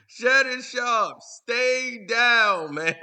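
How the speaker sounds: loud, amused jeer; laughing taunt. Real, not acted. Jeering at Shannon after he got roasted, loud laughing taunt. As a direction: call it out through a laugh.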